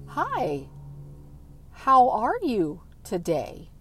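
soft, slowly spaced words; careful, slowed-down question for a hard-of-hearing dad; measured and deliberate, acting out the retold question; slowed normal tone. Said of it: "I spoke in a normal tone".

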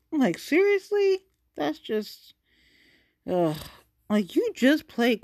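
high, loud, appalled seriously; can't believe what she's hearing; reacting to Mario Lopez, scoffing in disbelief; incredulous disbelief. Real, not acted. Reacting to celebrity comment.

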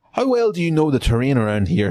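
lightly voiced Southern officer; a hint of Southern accent in the question; Frank Underwood accent. Confederate officer asking about the terrain, light Southern accent. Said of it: "That's a Frank Underwood accent".

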